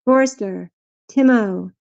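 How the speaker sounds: slow, lingering sign-off; drawn-out farewell. Real, not acted. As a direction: call goodbye, stretching the name slowly. Calling out farewells to chat members.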